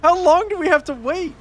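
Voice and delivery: high exasperated complaint; shrill anger. Real, not acted. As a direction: whine it high and furious. Raging at long timer.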